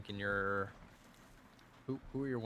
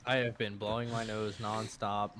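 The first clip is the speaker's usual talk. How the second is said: laughing through it. Real, not acted. Telling his podcast co-host about his allergies, laughing. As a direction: let the laugh spill into the words.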